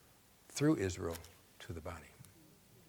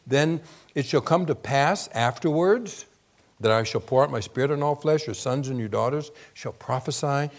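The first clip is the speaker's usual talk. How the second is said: scripture reading; 4 dB louder than usual. Acted. Preacher reading Joel to the congregation, proclaiming. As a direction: proclaim the verse.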